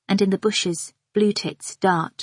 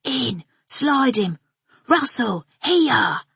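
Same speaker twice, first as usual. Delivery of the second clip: mock football shouts, pitched up; hollering; 4 semitones higher, slower than usual. A narrator's reading. Narrator voicing men hollering on the soccer field. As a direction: call out across the pitch like footballers. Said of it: "Hairy men in small shorts hollering".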